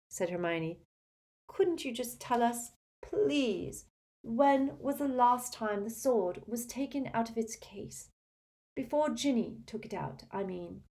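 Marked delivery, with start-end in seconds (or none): 1.5-10.8 high-pitched polite plea; entreating schoolgirl question; earnest girl student, pleading. Acted. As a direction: coax gently in a higher voice. Voices Hermione pleading.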